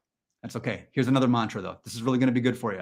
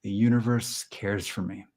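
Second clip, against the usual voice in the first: slow, spaced-out mantra voice; measured meditation-leader delivery; mock affirmation; 3 semitones lower, slower than usual. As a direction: recite it calmly, pausing midway. Leads a mock mantra exercise.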